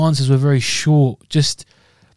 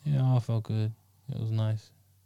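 soft, shy, mumbled delivery. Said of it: "got shy, innit, bro".

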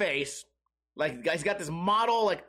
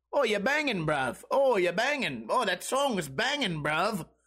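put-on English accent. Describing a movie where everyone calls each other bruv, in a put-on English accent. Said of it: "in this English accent".

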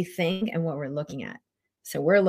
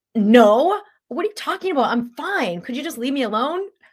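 mock very loud, high, snappish, irritable yelling; 8 semitones higher, 8 dB louder than usual. Acting out an irritable reply to her husband's question: mock-irritable yelling. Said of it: "now you're yelling at me".

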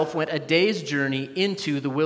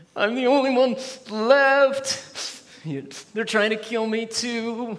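play-acted high, whiny complaining tone; 7 semitones higher than usual. Speaker acts out a man complaining to the Almighty, imitating a whiny voice. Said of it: "I sort of imagine him using like his whiny voice".

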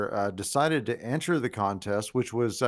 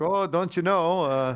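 put-on Minnesota accent, pitched up; 7 semitones higher than usual. Imitating a pumpkin grower's brother from Minnesota: Minnesota accent. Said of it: "that was Minnesota".

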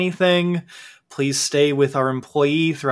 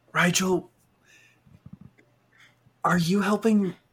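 whispered, higher pitch, in a put-on voice; 4 semitones higher than usual. Voicing a character who turns to Rigel: whispering in character. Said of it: "he's going to kind of whisper and be like".

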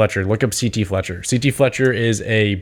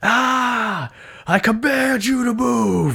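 play-acted very high scream, ah drawn out; 13 semitones higher than usual. Describing a movie where C.T. Fletcher curls a dumbbell, the speaker is imitating C.T. Fletcher screaming. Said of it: "he's screaming at his arm where he's just like".

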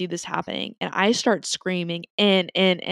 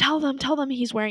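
mock screaming, much higher; 7 semitones higher than usual. Speaker retells a woman on the phone urging her to tell the police, retelling screaming into the phone. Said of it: "she's like screaming in the phone".

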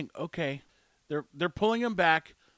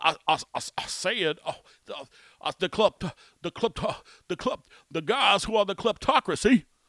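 blustery barnyard cartoon rooster voice; 4 dB louder than usual. Describing how a man sounds, speaker slips into Foghorn Leghorn voice. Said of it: "Remember the old foghorn, leghorn".

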